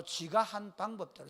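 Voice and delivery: Gyeongsang dialect "지가" for "자기가"; slow Gyeongsang phrasing with short "지가". Shown as a demonstration. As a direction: say "지가" the Gyeongsang way, slowly. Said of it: "경상도 말이고".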